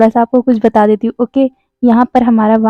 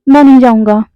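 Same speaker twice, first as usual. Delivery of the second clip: a touch louder, insisting; mild shout; 4 dB louder than usual. Acted. Prince refusing to give up the room, mild shout. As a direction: dig in and refuse, voice raised a little. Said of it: "दोनों ने एक साथ उसको चिल्ला के बोला था".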